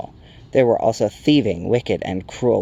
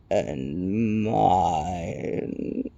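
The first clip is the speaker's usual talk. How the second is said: softer, drawn-out rock creature voice; crackling Rock Chewer; 3 semitones lower, 5 dB quieter than usual. A narrator's reading. Stone giant introducing itself, drawn-out crackle. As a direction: crackle the words out ponderously. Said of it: "the Rock Chewer crackled".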